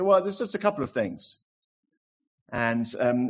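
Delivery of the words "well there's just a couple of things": put-on higher, gentle old man's voice; lightly voiced elderly preacher; old pastor's reply. Preacher quoting his old mentor: higher, gentle old voice. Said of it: "He said".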